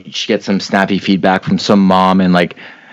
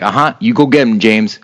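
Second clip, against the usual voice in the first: hype man. Retold or imitated. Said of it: "just to be like".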